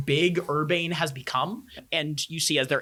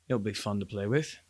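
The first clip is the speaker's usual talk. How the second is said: low, quiet threat; menacing guard chief; 4 semitones lower, 5 dB quieter than usual. Acted. Guard chief grabbing captive by the tunic, quietly menacing. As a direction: relish it quietly in a lowered voice.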